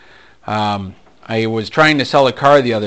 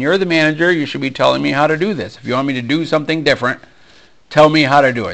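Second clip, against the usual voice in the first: exasperated pushback, mostly louder and urgent; raised voice; 4 semitones higher, 4 dB louder, faster than usual. Retold or imitated. Salesman telling off his manager, a little bit louder. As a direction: argue back insistently with voice raised. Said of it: "start talking a little bit louder".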